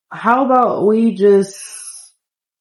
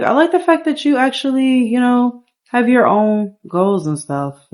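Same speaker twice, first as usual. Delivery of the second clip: higher-pitched woman's line; woman on a date; 5 semitones higher than usual. Acted. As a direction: play the date speaking higher, easing down at the end. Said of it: "she's like".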